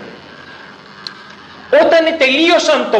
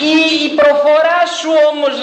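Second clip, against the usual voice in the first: put-on pressing servant girl; 6 semitones higher, faster than usual. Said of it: "μία δούλη".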